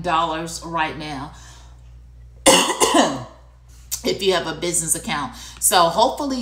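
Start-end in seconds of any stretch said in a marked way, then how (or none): 2.4-3.3 loud choking cough; coughing fit. Real, not acted. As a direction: cough as it goes down wrong. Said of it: "went down the wrong pipe".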